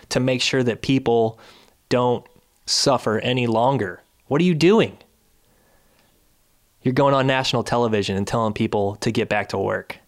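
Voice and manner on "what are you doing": exasperated. Real, not acted. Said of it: "I'm getting angry".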